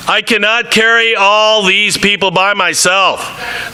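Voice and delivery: earnest Bible reading to the congregation; scripture reading. Acted. Preacher reading Numbers aloud, earnest. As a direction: read the passage with rising feeling.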